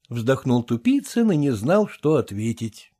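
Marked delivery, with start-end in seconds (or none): none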